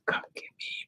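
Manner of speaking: whispered retold cry for help; very soft, hushed imagined plea; secret plea. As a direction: whisper it so nobody else hears. Voices secret unspoken plea.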